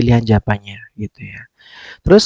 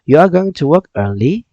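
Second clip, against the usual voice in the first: "You are going to work early" as a question, rising on "early"; question intonation; 5 semitones higher than usual. Shown as a demonstration. Teacher showing students how the sentence sounds when asked, question intonation. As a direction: lift "early" at the end, asking. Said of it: "Jadi kita ngomongnya".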